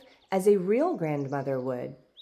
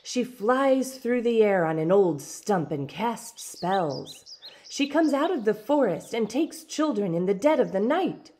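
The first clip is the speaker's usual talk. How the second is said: warning; 4 semitones higher, 3 dB louder than usual. Acted. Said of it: "another warned".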